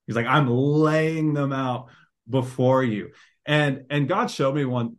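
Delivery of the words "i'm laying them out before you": LAYING stretched out long and slow; emphatic paraphrase. Acted. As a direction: draw out "laying" as if spreading it all out. Acts out David stressing his complaint.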